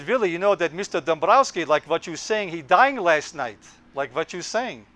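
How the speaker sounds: light imitation of a Hungarian mother's accent; hint of a Hungarian accent, broken English; mild Hungarian accent, retold mother. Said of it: "in her European accent".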